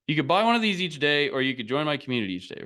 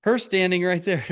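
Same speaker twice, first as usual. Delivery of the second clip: put-on little kid talk; 3 semitones higher than usual. Dad imitating how little Ariel talks, mock kid voice. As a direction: playfully copy a small child's phrasing. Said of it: "when they're little and they talk like that".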